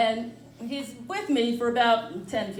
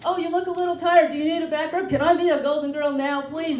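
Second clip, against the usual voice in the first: sweet talking; 5 semitones higher, faster than usual. Retold or imitated. Sucking up to Golden Girls.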